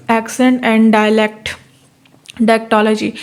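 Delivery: reading the definition slowly, word by word; slow dictation. Shown as a demonstration. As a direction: dictate it so students can write. Dictates topic heading slowly. (धीरे-धीरे लिखवाते हुए पढ़ना)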